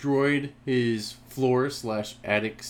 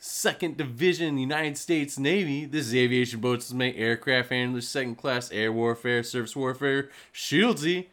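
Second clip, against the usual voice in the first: lightly voiced, overly polished phone greeting; formal Navy greeting. Shieldsy recalls answering Navy phones, mock formal. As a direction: rattle off title like a proud sailor. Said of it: "I used to be like".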